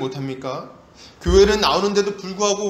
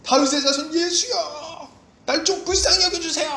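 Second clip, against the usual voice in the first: crying out; 12 semitones higher than usual. Acted. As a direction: stretch out a pleading call for mercy. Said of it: "이렇게 소리를 막 지르는 거예요". (길게 뽑아 애타게 외치기)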